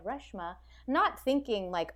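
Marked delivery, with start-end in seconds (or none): 0.1-0.6 Reshma said as RUSH-ma, short vowel; habitual pronunciation. Shown as a demonstration. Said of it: "because I've always said Reshma".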